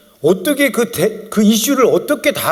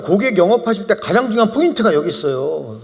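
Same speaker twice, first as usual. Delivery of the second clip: normal talking voice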